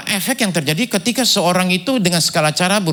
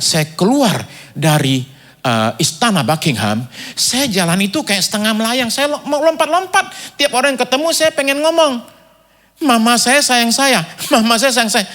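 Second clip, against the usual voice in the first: acted elation, building higher and louder; crazy with joy; 6 semitones higher, 3 dB louder than usual. Actor leaving the palace wanting to tell everyone, acted mad elation. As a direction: proclaim it to everyone, drawn out and giddy. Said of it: "Kayak orang gila".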